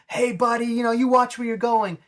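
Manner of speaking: lightly creepy taunt from the Joker. Retold or imitated. Joker warning Charlie from his car, creepy mock voice. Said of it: "and he's like".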